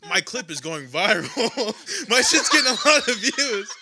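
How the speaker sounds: high, loud, slow boast through laughter; giddy mock bragging. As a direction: imitate a giddy friend showing off, drawn out. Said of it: "giddy, whatever, walking around the store".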